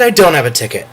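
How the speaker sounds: "I don't have a ticket" falls back down, let down; deflated. Retold or imitated. Retelling the ticket seesaw, deflated falling take. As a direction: drop it again, mock gloom.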